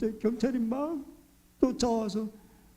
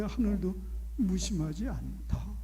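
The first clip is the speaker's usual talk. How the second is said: 하늘도 무심하지 않다 said slow and soft; slow, gentle, sure; calm reply; 4 dB quieter, slower than usual. Retold or imitated. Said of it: "우리 어머니는 자연스럽게". (조용하고 확신에 찬)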